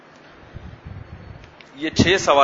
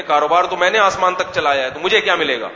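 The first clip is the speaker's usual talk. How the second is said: indignant son; 2 semitones higher, 4 dB louder than usual. Retold or imitated. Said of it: "تو کہہ رہے".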